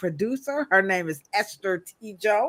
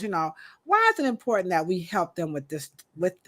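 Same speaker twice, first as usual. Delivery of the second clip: talking with sore, tightened braces; words stiff from freshly tightened braces. Real, not acted. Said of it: "I got my braces tightened".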